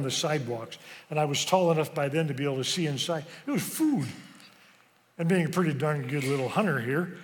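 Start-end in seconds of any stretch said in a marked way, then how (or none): 3.5-4.1 sudden high gasp of wonder; amazed discovery. Retold or imitated. Hungry boy spotting food in bags, high amazed. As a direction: let the wonder jump the pitch right up.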